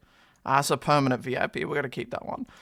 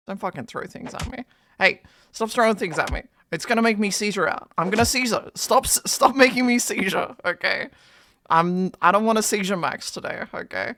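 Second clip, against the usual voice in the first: annoyed telling-off; 3 semitones higher, 3 dB louder than usual. Real, not acted. Players throwing things at him.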